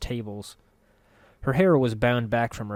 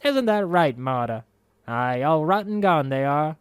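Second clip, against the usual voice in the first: crone muttering to herself; 5 semitones higher, 5 dB louder than usual. A narrator's reading. Marta talks to herself.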